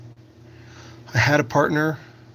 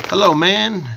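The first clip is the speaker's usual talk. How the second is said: loud, higher hello to the chat; loud greeting; 6 semitones higher, 7 dB louder, slower than usual. Real, not acted. Greeting a newcomer in chat, loud and high. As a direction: call out a big hello.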